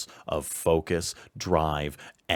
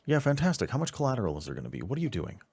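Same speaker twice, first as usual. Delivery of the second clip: irate handler; 4 semitones higher, 5 dB louder, faster than usual. Acted. GM voices irate handler on phone.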